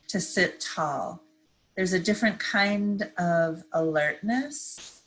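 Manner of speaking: calm, unhurried meditation guide; measured phrases with long pauses to breathe; guided meditation. Real, not acted. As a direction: ease listeners gently into stillness. Leads a seated meditation.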